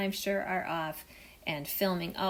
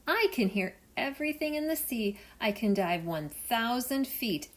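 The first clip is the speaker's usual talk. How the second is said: bright eager dolphin, louder; dolphin bragging; 4 semitones higher, 4 dB louder than usual. Acted. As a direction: show off, rising to a challenge.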